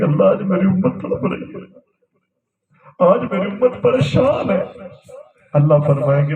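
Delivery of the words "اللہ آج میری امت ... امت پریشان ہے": imitated weeping plea, pitch rising on the repeat; tearful plea. Prophet pleads to God for his people, imitated tearful plea. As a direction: plead as if in tears, mildly acted. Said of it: "رو کے کہیں گے".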